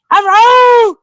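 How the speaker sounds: sudden high startled cry; startled yelp. Real, not acted. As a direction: jump at the sound. Sudden yell at noise outside.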